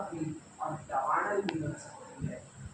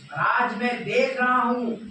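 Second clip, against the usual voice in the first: high, loud declamation; emphatic repeat; 6 semitones higher, 8 dB louder than usual. Acted. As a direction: proclaim it forcefully, pitch raised. Repeated line, escalated for effect. (ऊँचे स्वर में ज़ोरदार उद्घोष)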